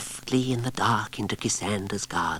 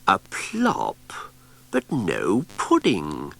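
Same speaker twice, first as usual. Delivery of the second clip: puzzled Cassandra; 3 dB louder, much slower than usual. Acted.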